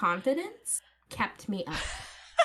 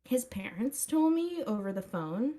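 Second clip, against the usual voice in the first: put-on Valley girl accent. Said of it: "The Valley Girl accent makes it so much better".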